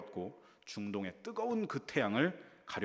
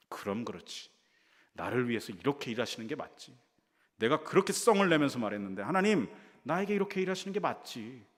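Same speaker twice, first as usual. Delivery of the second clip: smug gloating; 3 semitones higher, 5 dB louder than usual. Acted. Jonah gloats that God obeyed him.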